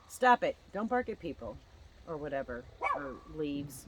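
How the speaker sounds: laugh, then snap it at the dog; telling off the dog. Real, not acted. Scolding the barking dog.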